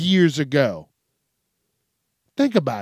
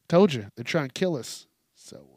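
normal talking voice

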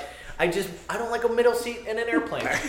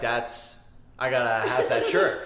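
mock shopper; 10 semitones lower, 5 dB quieter, slower than usual. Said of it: "you're like".

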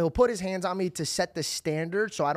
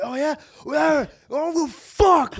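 put-on much higher, louder teenage sass; mock lippy taunt; 10 semitones higher, 7 dB louder, much slower than usual. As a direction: taunt dad from the top of the stairs. Acting out lippy teen taunting dad.

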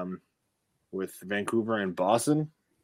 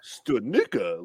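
mock European accent; slower than usual. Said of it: "a European slang on it".

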